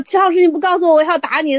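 high, half-joking threat; mock threat. Student threatening Teacher Qi, high mock threat. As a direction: threaten your teacher playfully.

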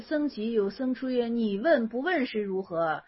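measured classical recitation, a bit quiet; reading a koan aloud. A narrator's reading. Teacher reads classical koan to students, measured recitation. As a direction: read the old text evenly and unhurried.

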